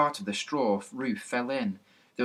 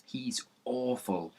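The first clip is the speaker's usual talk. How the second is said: slow breathless whisper; low voice; 2 semitones higher, 6 dB quieter, slower than usual. A narrator's reading. Pip whispering to Larry about the boy, hushed. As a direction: hush it so the boy won't hear. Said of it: "in a low voice to Larry".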